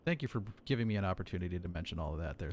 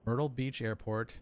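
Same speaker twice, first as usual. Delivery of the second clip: cleared to the stretched out slowly; slow model clearance read; slow demo clearance; 2 semitones higher, slower than usual. Shown as a demonstration. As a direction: read the phrase very deliberately.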